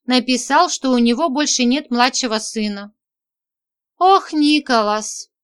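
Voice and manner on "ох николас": slow, saddened sigh of a name; upset. Acted. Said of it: "расстроилась я".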